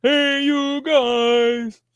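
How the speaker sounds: very slow, high, drawn-out sloth voice; sloth impression. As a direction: drag it out like a sleepy sloth. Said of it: "sloth impression".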